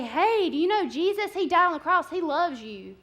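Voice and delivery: mock pushy witnessing. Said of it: "going up to somebody and say".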